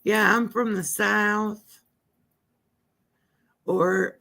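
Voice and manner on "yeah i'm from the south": Southern accent. Shown as a demonstration. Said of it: "I would use a Southern accent".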